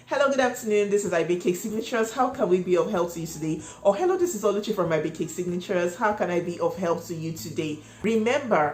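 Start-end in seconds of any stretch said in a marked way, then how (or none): 0.1-3.6 cheerful phone tone. Shown as a demonstration. Cake shop owner greeting a customer on the phone cheerfully. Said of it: "hear that cheerfulness". 4.0-7.8 friendly, brisk welcome; cheerful phone greeting. Shown as a demonstration. Shop owner greeting a caller by name, cheerful. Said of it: "hear that cheerfulness".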